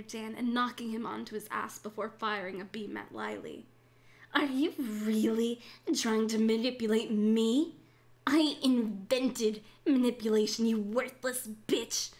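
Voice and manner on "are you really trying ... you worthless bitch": loud, scornful villain; mock them with disdain; contemptuous sneer.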